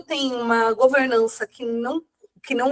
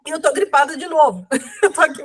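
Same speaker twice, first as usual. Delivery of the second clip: laughing; 3 semitones higher, faster than usual. Real, not acted. Laughing about being sick again.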